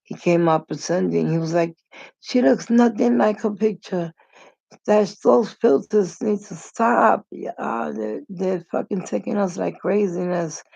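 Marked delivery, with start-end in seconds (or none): 2.2-10.6 higher-pitched mock griping; lightly acted indignation, pitched up; acted complaint. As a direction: imitate someone griping about being fooled. Acting out date's complaint about filters.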